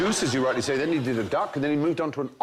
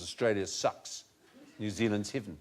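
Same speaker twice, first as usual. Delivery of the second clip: put-on New Zealand accent; 4 semitones lower, 6 dB quieter than usual. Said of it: "they would pronounce as".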